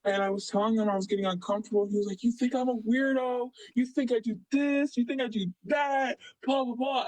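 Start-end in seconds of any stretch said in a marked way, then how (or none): 2.2-7.1 higher-pitched, mocking accusatory retelling; whiny imitation of someone on the defensive; retold defensive outburst. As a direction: mimic him protesting, pitch raised.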